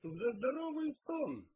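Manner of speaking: high, slow, drawn-out toast; proposing a toast. A narrator's reading. Detective toasts with beer in the kitchen, toasting. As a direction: raise the pitch and stretch the words ceremonially. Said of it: "произнёс тост Пил".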